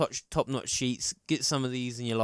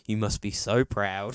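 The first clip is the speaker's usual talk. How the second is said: a slow, lower deadpan; slow deadpan quote; 5 semitones lower, slower than usual. Retold or imitated. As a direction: slide the line in slowly and dryly. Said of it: "she just slid in there with this".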